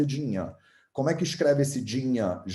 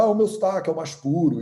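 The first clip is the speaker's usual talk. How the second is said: boastful mock quote; 3 semitones higher, faster than usual. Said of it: "o resto da galera fala".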